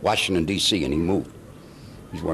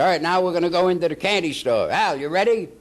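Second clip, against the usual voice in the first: put-on higher, director's thick German accent; lightly voiced German director calling the actor in; 8 semitones higher than usual. Director calling action in a lightly voiced German accent. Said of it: "and he had a thick accent".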